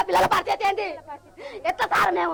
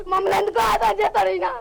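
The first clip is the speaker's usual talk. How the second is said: crying. Real, not acted. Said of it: "ఏడుస్తున్నావు?".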